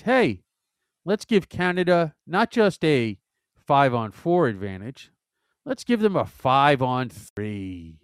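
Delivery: loud mock suggestion, slowing at the end; sarcastic mock proposal. Hockey commentator voices Team USA's decision, sarcastically. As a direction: propose it loudly as a ridiculous idea. Mocking a team's foolish decision.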